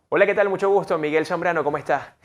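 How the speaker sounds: projected self-introduction, "tal" lifted; intense introduction. Shown as a demonstration. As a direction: introduce yourself with force and confidence. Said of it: "la intensidad genera eso".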